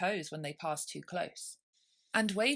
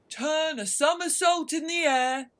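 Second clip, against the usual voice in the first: high, loud, capering cry; wild cry; 11 semitones higher, 10 dB louder than usual. Acted. Mock Turtle capering wildly, crying out high and loud. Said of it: "cried the Mock Turtle".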